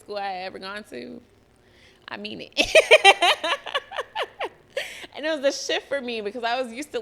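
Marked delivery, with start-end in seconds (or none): 2.6-4.5 big burst of high laughter; loud high laugh. Real, not acted. Recalling the blackest school she attended, laughing loudly and high. Laughs at her own story.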